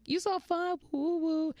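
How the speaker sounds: high-pitched imitation of admiring fans; excited cheering. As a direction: squeal it like a hyped-up fan. Admirers cheering her on, acted quote.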